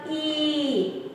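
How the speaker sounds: "E" drawn out as a long ee; lengthened "E" for the two dots. Shown as a demonstration. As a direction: hold the vowel "E" long and slow. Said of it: "when you put two dots here".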